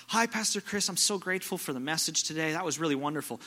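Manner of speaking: a hint of a starstruck young woman; lightly voiced grateful girl. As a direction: chirp it like an eager churchgoer. Girl greeting the pastor.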